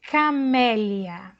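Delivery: Camélia drawn out, stress on MÉ; slow model word. Shown as a demonstration. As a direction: say Camélia slowly and clearly. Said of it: "Olha o som da letra C".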